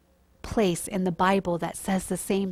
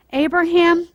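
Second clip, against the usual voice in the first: calling out; 8 semitones higher, 9 dB louder than usual. Acted. Angel calls down again.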